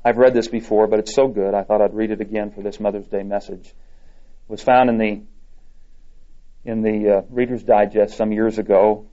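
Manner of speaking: normal talking voice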